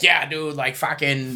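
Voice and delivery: hammed-up Boston accent. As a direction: imitate a Boston sports fan's accent. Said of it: "they have a Boston accent".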